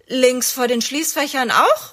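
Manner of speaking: rufen. A narrator's reading. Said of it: "ruft er".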